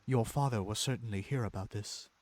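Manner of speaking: loud, put-on mocking voice; hammed-up mock echo; mocking imitation. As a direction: parrot the threat back in a silly voice. Mocking the mother's threat.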